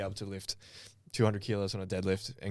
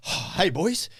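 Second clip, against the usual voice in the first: high, breezy imitation of a mate; lightly voiced, carefree gym friend; mock casual greeting; 9 semitones higher, 4 dB louder, slower than usual. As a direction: toss off a cheery hello, pitched up.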